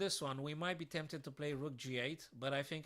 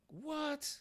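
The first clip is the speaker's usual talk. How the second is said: stunned what. Real, not acted. Puzzle solution shocks him.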